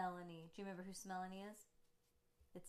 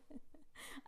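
soft laugh; 8 semitones higher, 5 dB quieter than usual. Real, not acted. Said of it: "I'm laughing".

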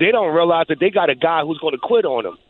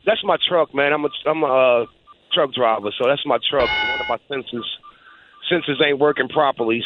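alarm beeping. Real, not acted. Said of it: "sorry for the beeping in the background".

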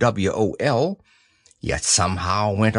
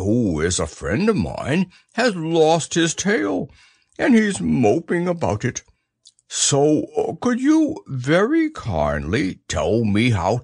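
Pooh, earnest bear. Acted.

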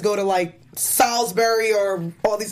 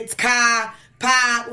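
mocking an overdone Boston accent; broad parody Boston vowels; exaggerated Boston accent; 2 semitones higher, much slower than usual. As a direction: drop the R's in a hammed-up Boston accent. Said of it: "not as exaggerated as they do".

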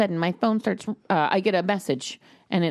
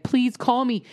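high, hammed-up cry for help; mock distress plea; 5 semitones higher, slower than usual. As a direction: plead like a trapped little boy. Boy's SOS calls, acted.

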